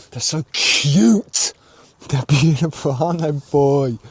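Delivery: drawn-out, adoring coo; real gushing. Real, not acted. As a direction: stretch it out slowly, utterly charmed. Gushing over the accents he loves.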